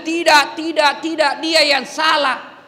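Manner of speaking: mock the stubborn denier; stubborn denial. Inmate stubbornly denying.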